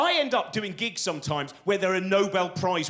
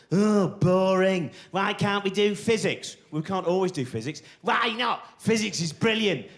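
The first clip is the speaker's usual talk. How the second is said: Brian Cox sulking. Retold or imitated. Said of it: "Walked to me".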